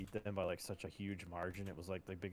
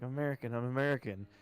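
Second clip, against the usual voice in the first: retold yell; 4 semitones higher, 5 dB louder, faster than usual. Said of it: "He's, like, yelling in German".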